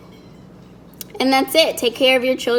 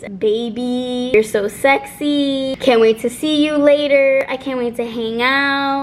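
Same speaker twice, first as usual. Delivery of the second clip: drawn-out imitation of flirty texts; mock lovey-dovey. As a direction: mockingly draw out the sweet talk. Reads lovers' messages mockingly.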